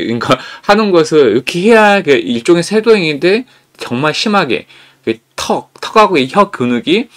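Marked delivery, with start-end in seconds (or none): none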